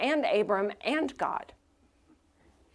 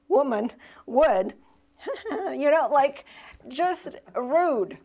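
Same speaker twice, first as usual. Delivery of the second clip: higher and louder, laughing as the words come; laughing through it; 6 semitones higher, 5 dB louder than usual. Real, not acted. Pastor telling the congregation, laughing while talking. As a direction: giggle out the words, half amused.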